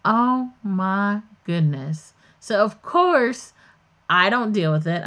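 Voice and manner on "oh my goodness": mock dismay. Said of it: "I was like".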